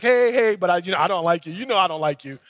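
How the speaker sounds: mock-friendly hey, then thinly veiled dislike; cordial frustration. Pastor and doorman trading greetings despite their tension, cordial frustration. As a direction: imitate polite greetings over mild irritation. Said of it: "it was kinda like this cordial frustration".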